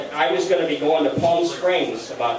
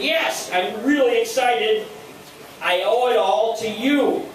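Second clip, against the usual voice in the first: high, drawn-out gushing; excited, pitched up and stretched out; retold excitement; 5 semitones higher than usual. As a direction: imitate a grateful friend thrilled with the news.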